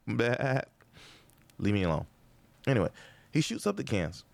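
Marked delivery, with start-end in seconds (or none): 0.1-0.6 sheep bleat. Shown as a demonstration. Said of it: "Is that a sheep?".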